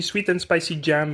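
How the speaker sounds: English words with a French accent; casual French-accented English. Shown as a demonstration. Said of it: "comme chez nous, on dit".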